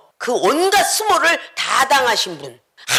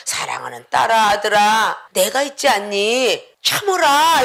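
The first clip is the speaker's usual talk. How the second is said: tender Lord; 4 semitones lower than usual. Acted. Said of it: "무릎 꿇고 앉아있으면".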